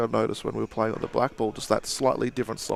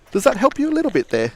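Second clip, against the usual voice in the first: put-on higher, louder, failed Australian accent that slides English; bad Australian accent; 12 semitones higher, 6 dB louder than usual. Cheerful bad Australian accent greeting viewer Wayne. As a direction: ham up an Australian mate greeting. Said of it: "meant to be an Australian".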